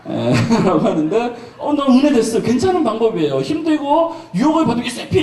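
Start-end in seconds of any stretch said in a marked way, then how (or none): 4.9-5.2 a sudden bright shout of the word; high cheer. Shown as a demonstration. Preacher demonstrating the cheer to the congregation, called out high. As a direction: call it out high, like a rallying cry.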